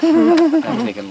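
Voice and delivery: high, loud, slow marvel; amazed. Real, not acted. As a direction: savor the wonder. Awed buildup.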